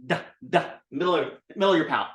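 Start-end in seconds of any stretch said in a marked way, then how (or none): 0.0-0.7 "duh, duh" tapped with tongue on teeth; dental duh. Shown as a demonstration. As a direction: dental consonant on each "duh". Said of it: "just like a dental duh".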